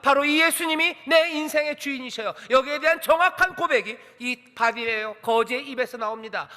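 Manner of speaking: fervent preacher calling the congregation; full-force preaching. Acted. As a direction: preach it out to the whole hall. Preaches to students and parents.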